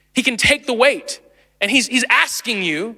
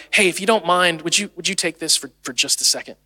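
apologetic; 4 semitones lower, 3 dB quieter than usual. Shown as a demonstration. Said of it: "give someone something apologetically".

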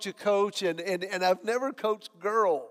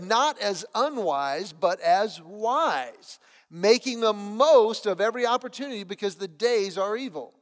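scripture reading. Acted. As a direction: read the Bible passage with weight. Reads scripture in sermon.

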